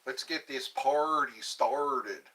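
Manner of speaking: slow, drawn-out show opener; party opener. Shown as a demonstration. Host opening his live show, slow hype opener. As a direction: stretch it out like a host kicking off. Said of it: "That's what I can do".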